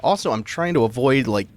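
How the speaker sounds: numb mouth after root canal; talking through a numb mouth; numb from the dentist. Real, not acted. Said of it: "my mouth is still numb, so I feel like I'm talking a bit weird".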